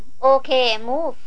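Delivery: slow drawn-out call to move out; shouted order. Acted. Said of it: "ตะโกน". (ตะโกนสั่งให้ออกเดิน ช้าๆ)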